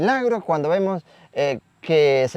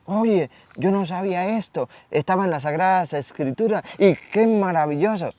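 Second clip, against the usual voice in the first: marveling, with raised pitch; lightly voiced excited discovery; imitated amazement; 5 semitones higher than usual. Congregation members discovering something in Scripture, amazed. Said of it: "nos emocionamos cuando escuchamos la".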